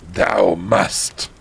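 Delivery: low, mock-imperious command; understated archaic villain; lightly voiced villain. Voldemort ordering the heroine, mock-imperious. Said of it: "he yelled".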